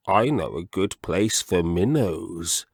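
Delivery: lightly voiced slow frog gentleman; a hint of a fussy old frog; slow, mild frog voice; frog character voice. Mr Jeremy Fisher's voice.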